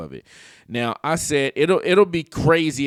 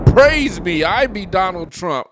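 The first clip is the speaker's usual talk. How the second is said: Donald Trump; 5 semitones higher, 5 dB louder than usual. Retold or imitated. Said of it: "Trump's putting it out like".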